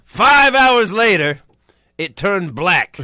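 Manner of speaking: slow, dragged-out reveal; slow ominous dad. Retold or imitated. Dad telling his son the outcome, slow. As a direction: drag out the reveal. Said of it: "he says".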